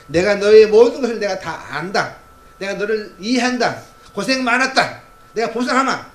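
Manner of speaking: slow, loud, high proclamation of God; God's voice, booming. Acted. Preacher booming as God to the faithful, slow and loud. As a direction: proclaim it slowly with swelling power.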